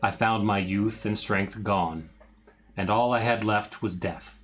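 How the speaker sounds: dramatic reading. Acted. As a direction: read it like an old curse. Continues journal reading.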